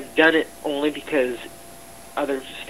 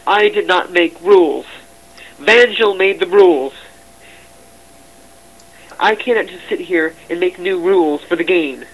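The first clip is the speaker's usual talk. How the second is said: loud, raised-pitch heated insistence; indignant; 5 semitones higher, 7 dB louder than usual. Real, not acted. Staff member defending self over the rules, indignant. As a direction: push back hard against the blame.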